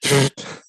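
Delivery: spluttering laugh over a drink; spit take laugh. Real, not acted. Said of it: "that was a legitimate spit take right there".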